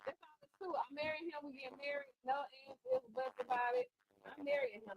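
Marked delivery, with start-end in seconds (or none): 2.2-4.9 high, playful vow; playful declaration. Real, not acted. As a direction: declare it like a giddy fan.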